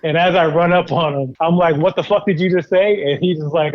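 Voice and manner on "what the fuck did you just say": angry yell. Retold or imitated. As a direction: demand an answer, furious. Confronting the man who insulted him.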